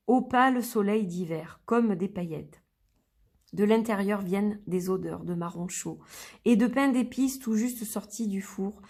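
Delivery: gentle storytelling read of a guided-imagery text; unhurried poetic recital. Acted. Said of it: "Je vais vous lire celui-ci".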